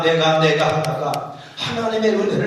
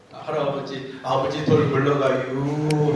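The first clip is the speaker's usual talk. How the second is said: slow Chungcheong; 4 semitones lower, slower than usual. Shown as a demonstration. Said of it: "축약해서 쓴단 말이에요".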